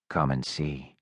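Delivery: かなり低く抑えた男の声; 喉の奥から低く沈んだ声で; low voice. A narrator's reading. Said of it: "said Low Voice".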